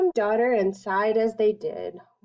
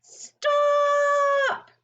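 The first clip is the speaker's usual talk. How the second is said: sudden high, loud yell to halt her; parents yell; 3 dB louder than usual. Acted. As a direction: shout it to cut her off at once. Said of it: "her parents yelled".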